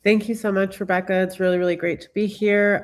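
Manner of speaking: stuffy, blocked-nose voice; congested voice. Real, not acted. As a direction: talk through a congested nose. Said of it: "sorry if my voice sounds a little bit, uh, congested".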